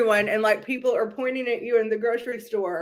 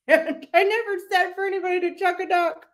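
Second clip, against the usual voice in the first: high put-on voice, playful denial; mocking impression; 8 semitones higher than usual. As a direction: deny it in a squeaky mock voice. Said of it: "she's a little Shannon Beador".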